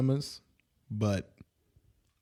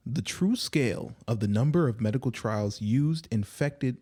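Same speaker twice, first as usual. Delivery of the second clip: news anchor read. Acted. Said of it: "I'm gonna try my best to read it like a, like a news anchor".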